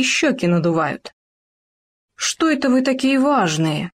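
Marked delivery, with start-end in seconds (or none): 2.1-3.9 wary fox. Acted. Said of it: "насторожилась лиса".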